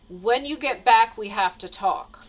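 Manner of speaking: slow, weighty imitation of a stern warning; mock serious. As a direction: lightly play him as grave and ominous, slowly. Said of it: "Like, all serious".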